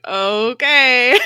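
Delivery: high, loud, rising reluctant okay; doubtful agreement. Retold or imitated. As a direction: go along with it, pitch climbing doubtfully. Everyone's doubtful answer to pilot.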